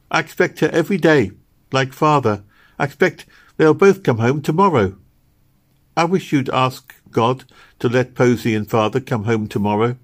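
lightly voiced little girl, full of hope; hopeful little Meg. Little girl expecting Posy and father home, hopeful. Meg's figure in dialogue.

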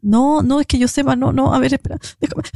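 halting, repeated words, fading at the end; mock flustered stammer. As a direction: imitate someone stumbling over excuses. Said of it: "se puso a tartamudear". (imitando un tartamudeo nervioso)

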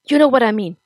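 loud, pointed, high; angry retort. Acted. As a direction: cut through her evasion. Nick snaps at mother.

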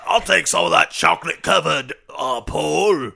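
lightly voiced British accent; impression of a singer. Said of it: "That's a singer"

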